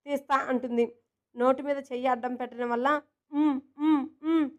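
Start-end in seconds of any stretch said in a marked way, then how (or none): 3.3-4.5 mm-mm-mm with a hand over the mouth; muffled humming. Acted. Jaanu gagged by her friend's hand, humming muffled protest. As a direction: hum through a covered mouth. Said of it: "మూలుగుతూ".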